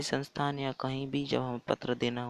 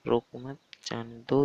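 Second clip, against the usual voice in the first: रोको मत as one group, then जाने दो; pause after मत. Shown as a demonstration. Teacher explaining the third example, pause after मत. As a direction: break the phrase between मत and जाने. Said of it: "तो इसका हो गया".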